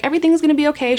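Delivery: sing-song reassurance from the nurse; mock reassuring nurse.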